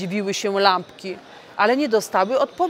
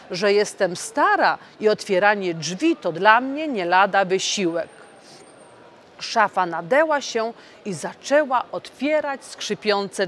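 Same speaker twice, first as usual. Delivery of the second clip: lively read-aloud fairy tale voice; storytelling for children. A narrator's reading. MEP reading a Christmas tale to children, animated storytelling. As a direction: read the tale to the little ones.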